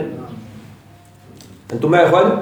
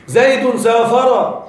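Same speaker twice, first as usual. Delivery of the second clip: slow example reading; much slower than usual. Shown as a demonstration. Teacher reads grammar example.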